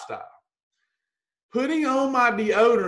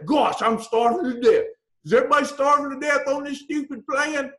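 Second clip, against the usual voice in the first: mock whining dieter; 4 semitones higher than usual. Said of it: "I hear this in every day".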